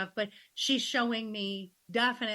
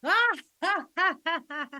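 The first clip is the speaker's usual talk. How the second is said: high, loud unhinged cackle; maniacal laugh; 7 semitones higher, 5 dB louder than usual. Retold or imitated. Mom with sick kids everywhere laughing like a maniac. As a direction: laugh like you've totally lost it. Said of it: "laughing maniacally".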